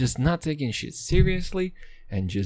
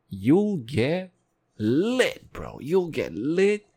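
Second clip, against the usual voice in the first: hyped dealer; 2 semitones higher, much slower than usual. Pretend. Hyping drug, far voice.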